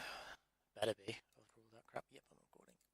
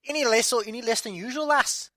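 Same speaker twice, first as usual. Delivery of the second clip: higher, fast hammed-up Scottish accent; exaggerated Scottish caricature voice; mock Scottish accent; 9 semitones higher, 5 dB louder than usual. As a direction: play a cheeky Scot teasing a lass. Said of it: "because of the Scots".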